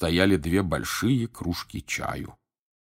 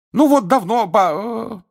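high, loud, stopping short mid-word; cut off mid word; 8 dB louder than usual. A narrator's reading. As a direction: break off in surprise. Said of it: "Гермиона осеклась на полуслове". (осеклась на полуслове)

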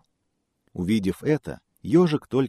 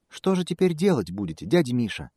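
high squeaky mouse; 5 semitones higher than usual. Acted. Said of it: "пискнул мышонок".

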